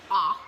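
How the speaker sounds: "ah," said as a short open ah; short O sound. Shown as a demonstration. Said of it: "It has a short sound".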